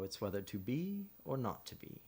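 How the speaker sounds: a lightly voiced Hamlet, mild and even; Hamlet speaking of living. Shown as a demonstration. Narrator demoing the living side of Hamlet, lightly voiced. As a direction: read the living lines in a gentle, steady voice. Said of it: "I would be speaking like this".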